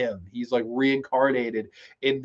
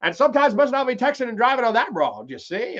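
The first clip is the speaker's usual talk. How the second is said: old man impression; 6 semitones higher than usual. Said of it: "the old man from Pet Sematary".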